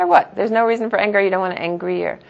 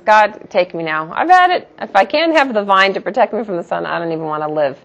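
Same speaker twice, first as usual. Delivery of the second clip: dramatic Jonah. Retold or imitated. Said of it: "he was very dramatic".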